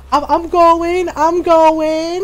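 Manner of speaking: nervous stammer, loud; stammering and backing away; scared stammer. Retold or imitated. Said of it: "he goes".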